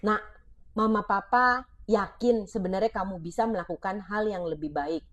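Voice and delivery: put-on a parent encouraging a child to try again, gently; gentle parent. Shown as a demonstration. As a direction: coax the child kindly. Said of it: "Yuk ganti kata-katanya menjadi".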